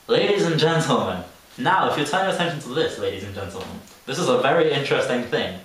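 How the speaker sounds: lightly voiced condescending guide addressing the group; mock tour guide. Teen mocking a tour guide to her friend, condescending. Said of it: "she was so condescending as well".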